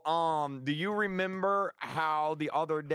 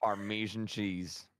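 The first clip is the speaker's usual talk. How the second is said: much lower silly duck voice; 6 semitones lower, 3 dB quieter, much slower than usual. Pretend. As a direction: put on a goofy duck voice. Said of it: "Why do you sound like a duck?".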